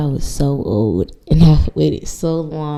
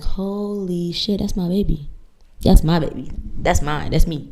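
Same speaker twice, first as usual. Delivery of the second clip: softer and slow, stunned at the screen; awed hush; 6 dB quieter than usual. Retold or imitated. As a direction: breathe it out in wonder. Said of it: "and I'm like".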